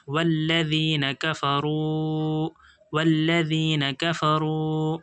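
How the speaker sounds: slow, measured tajweed recitation; slow Quran recitation. Shown as a demonstration. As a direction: draw the words out slowly, chanting. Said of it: "teacher recites the joined words".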